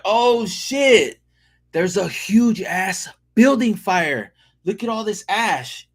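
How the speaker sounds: high, startled cry of alarm; alarmed shout. Retold or imitated. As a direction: gasp it out like the city's on fire. Alarmed at falling ash.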